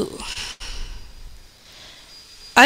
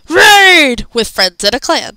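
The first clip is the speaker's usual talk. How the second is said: calm quote; 5 semitones higher, 4 dB louder, slower than usual. Retold or imitated. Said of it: "Just the calmness of it".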